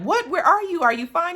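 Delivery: high, alarmed questions; mother panicking over her son; mock worried mother. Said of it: "She was just like".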